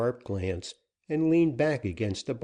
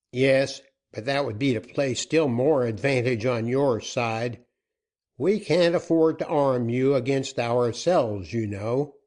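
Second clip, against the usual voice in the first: raised, firm outlaw bargaining; a gruff-tempered captain pressing for terms; louder, pushy bandit chief; 3 semitones higher, 5 dB louder than usual. Acted. Joaquin argues with Dick.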